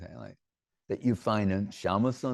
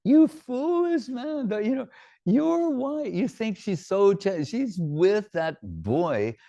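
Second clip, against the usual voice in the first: much higher, scolding mother-in-law voice; shrill-free high mock scolding, jabbing at her son; nagging mother-in-law; 6 semitones higher than usual. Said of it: "he goes".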